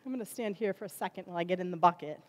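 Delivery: ordinary delivery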